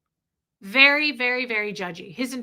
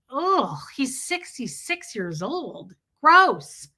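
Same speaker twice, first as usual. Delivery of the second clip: disgusted; 2 semitones higher, slower than usual. Retold or imitated. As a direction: recoil in mock disgust. Reacting in disgust to cooing.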